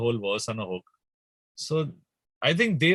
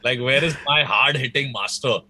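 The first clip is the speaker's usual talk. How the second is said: mock jealous complaint; 4 dB louder than usual. Musician griping about a fellow singer's hit, mock jealous. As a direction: protest like a jealous friend, playfully worked up. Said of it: "now I get really jealous".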